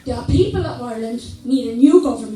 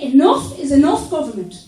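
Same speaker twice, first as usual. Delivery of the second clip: imagined speech to government. Retold or imitated. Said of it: "get to Dublin and say".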